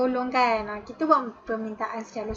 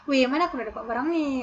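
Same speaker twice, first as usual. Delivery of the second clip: rude question; faster than usual. Shown as a demonstration. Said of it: "tak sopan lah kalau cakap macam tu".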